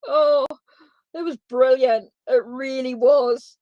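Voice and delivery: laughing. Real, not acted. Live reader reacting to a funny card, laughing. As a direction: say it through lingering laughter. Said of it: "Can't stop laughing about it".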